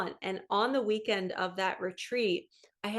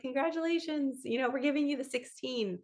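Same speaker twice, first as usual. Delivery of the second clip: higher-pitched imitation of a caller with good news; congratulatory; 5 semitones higher than usual.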